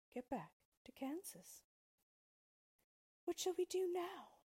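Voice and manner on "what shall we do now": sadly. Acted. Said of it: "she asked her friend sadly".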